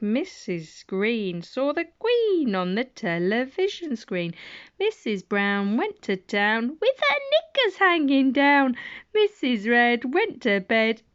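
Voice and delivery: lilting rhyme reading for little ones; reading rhymes to children. Acted. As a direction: read it playfully like bedtime for a toddler.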